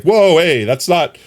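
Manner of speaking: startled listener. Retold or imitated. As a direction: recoil in mock alarm at a changed voice. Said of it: "You were like".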